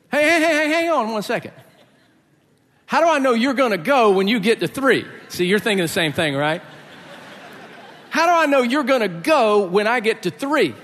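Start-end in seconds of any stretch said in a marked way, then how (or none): 0.1-5.1 higher, louder frantic hey hey; alarmed stalling. Retold or imitated. Friend stalls the countdown on the rock, higher and frantic. Friend panics before the jump. 8.1-10.8 higher, louder frantic hey hey; alarmed stalling. Retold or imitated. Friend stalls the countdown on the rock, higher and frantic. Repeats friend's panicked question.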